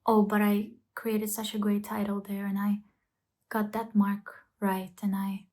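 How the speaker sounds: tender inner voice; gentle self-praise. Shown as a demonstration. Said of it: "Notice the things that you do well".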